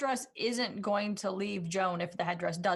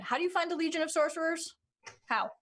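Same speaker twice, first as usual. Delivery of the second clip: sarcastic; 5 semitones higher than usual. Acted. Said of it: "I'm gonna be sarcastic for a second".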